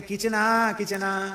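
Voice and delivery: a lightly fond, mock-tender किचना; gently doting, lightly done; affectionate. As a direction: coo it like a pet name. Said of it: "बहुत लाड से कहें".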